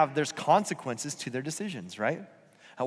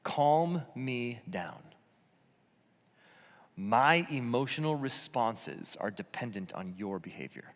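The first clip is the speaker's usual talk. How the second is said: slow, softer voicing of the yelling parent; parent's hidden message; 6 semitones lower, 5 dB quieter than usual. Yelling parent's message to the kid, mock-spoken slowly. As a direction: lower and slower, spelling out the unspoken demand. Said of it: "here's what we communicate".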